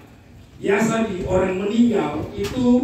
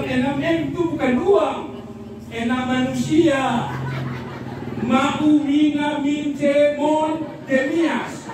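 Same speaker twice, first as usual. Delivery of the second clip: lightly voiced widow; 6 semitones higher, slower than usual. Widow explains the punchline.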